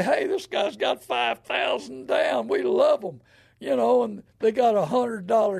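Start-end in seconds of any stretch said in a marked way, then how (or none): 0.0-3.2 slow, drawn-out happy shout of a lender; mock-cheering lender, slowed and shouted; gleeful banker quote. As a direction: crow it like a delighted banker. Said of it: "the bank and the credit union say".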